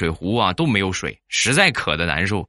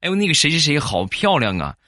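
imitating wife; 6 semitones higher than usual. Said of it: "你媳妇儿可能在你的面前夸".

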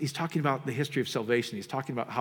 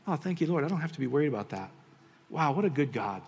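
grateful prayer; 2 semitones higher than usual. Pretend.

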